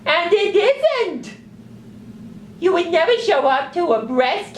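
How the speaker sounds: high squeaky exasperated puppet; indignant little sock puppet lecturing. Acted.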